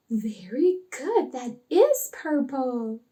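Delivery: slow, drawn-out praise for a small pupil; unhurried teacherly approval; praising teacher. Acted. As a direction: praise the puppet slowly and encouragingly. Teacher praises puppet's answer.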